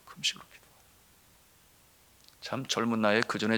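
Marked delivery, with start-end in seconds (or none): 0.0-0.6 whispered command, barely audible; hushed echo of the message; Holy Spirit's voice. Retold or imitated. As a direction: breathe it as an inner prompting. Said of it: "성령께서 제 마음에 주시는 음성은".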